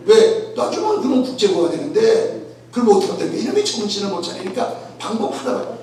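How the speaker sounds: ordinary delivery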